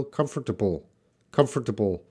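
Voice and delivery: British Comfortable with a crisp t in the middle, KUM-fuh-tuh-bul; British pronunciation. Shown as a demonstration. Teacher shows students the British way to say Comfortable. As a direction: sound out Comfortable the British way, t clearly hit. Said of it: "has a stronger T sound in the middle".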